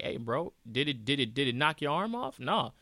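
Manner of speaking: dismissive bro voice, pitch rising line by line; mock macho bro. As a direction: brush off the pain like a pushy gym buddy. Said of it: "society's like".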